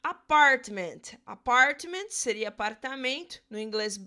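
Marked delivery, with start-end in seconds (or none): 0.0-1.0 'apartment' said louder, as a clear model word; English example word. Shown as a demonstration. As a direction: present 'apartment' to the class. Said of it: "Por exemplo".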